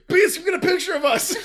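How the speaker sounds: high squeaky laughing quote. Retold or imitated. Charles voiced, laughing high.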